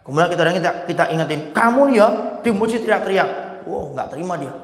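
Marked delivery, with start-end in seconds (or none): 1.5-3.3 high, loud scolding shout; scolding rebuke. Pretend. Man scolds a noisy worshipper in loud anger. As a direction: snap at him for yelling in the mosque.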